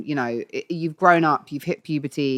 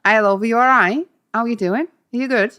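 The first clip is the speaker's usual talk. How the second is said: lightly put-on northern English, a bit higher; friendly northern greeting, lightly done; northern accent; 4 semitones higher than usual. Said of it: "I can do you in Manchester".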